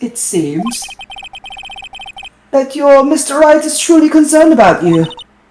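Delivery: terrible put-on posh British accent, very high pitch. Voicing the killer character to another player: bad posh British accent. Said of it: "the worst British accent I've ever heard".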